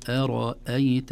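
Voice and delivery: slow أرأيت, thin first syllable, thick ra; light hamza, heavy ra. Shown as a demonstration. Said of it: "همزة مرققة ثم راء مفخمة".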